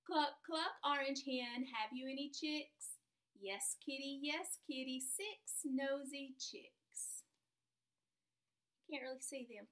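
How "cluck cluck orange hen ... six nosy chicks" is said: slow, sing-song storybook read; reading to children. Acted. Teacher reads a rhyming story to her class, sing-song. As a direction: read it out slowly, like a picture book at snack time.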